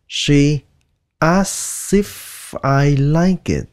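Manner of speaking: "She As if I like it" with the k of "asks" dropped. Shown as a demonstration. Teacher shows the natives' shortcut, the k dropped. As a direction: blend "asks" into "as", slow and smooth. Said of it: "người bản xứ thường người ta sẽ nói".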